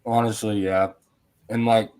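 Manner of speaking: talking with food in mouth; mouth full. Real, not acted. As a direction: speak around a mouthful of food. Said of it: "sorry, I have food in my mouth".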